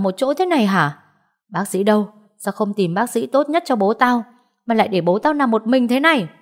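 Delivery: quarrelsome aunt, mildly indignant; scolding aunt. Acted.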